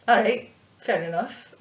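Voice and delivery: thick mock-Scottish dwarf; Scottish dwarf, easygoing; terrible Scottish accent. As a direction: agree casually in a bad Scottish accent. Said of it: "a really thick, terrible Scottish accent".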